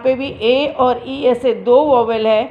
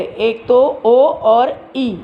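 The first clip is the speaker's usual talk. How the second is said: slow pointing out; much slower than usual. Shown as a demonstration. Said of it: "इसमें दो स्वर है".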